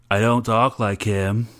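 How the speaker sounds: slow, lightly put-on Southern accent; half-hearted Southern accent jokingly mocking himself; bad Southern accent. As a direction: drag it out in a bad Southern accent like Forrest Gump. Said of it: "That was a really bad Southern accent".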